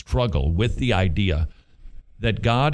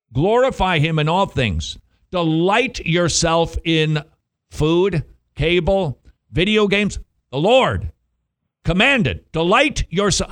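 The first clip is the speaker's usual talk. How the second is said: preaching force; 5 semitones higher than usual. Real, not acted.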